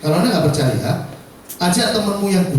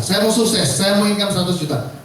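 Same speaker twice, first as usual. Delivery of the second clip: lightly imitated eager go-getter, pitched up; mock enthusiasm; 2 semitones higher than usual. Speaker mimics trainees who want success, mock enthusiasm. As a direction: parody an ambitious recruit's keen declaration. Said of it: "Gayanya semangat luar biasa".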